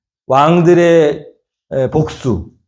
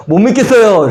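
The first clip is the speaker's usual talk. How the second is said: defiant complaint; 6 semitones higher than usual. Acted. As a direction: throw it back at God like a sulking child. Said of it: "이렇게". (하나님께 대드는 반항적인 항변)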